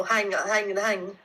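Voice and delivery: Scottish-accented dialect demo. Shown as a demonstration. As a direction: hang said the Scottish way for thing. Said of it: "sometimes I say, like, a hang".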